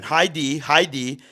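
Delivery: high, loud mock call through a door; calling a dog. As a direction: imitate the neighbor cooing at a dog. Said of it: "talking to my dog through the door".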